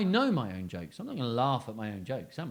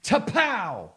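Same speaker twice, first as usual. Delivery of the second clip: mock Batman; 8 semitones higher, 8 dB louder than usual. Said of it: "he went".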